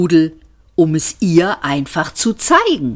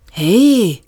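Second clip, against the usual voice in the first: surprised hey; 3 semitones higher, 3 dB louder than usual. Acted. Astonished at the cake.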